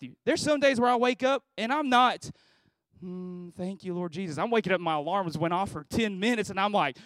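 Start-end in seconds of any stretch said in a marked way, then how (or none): 3.0-4.4 mock pious prayer.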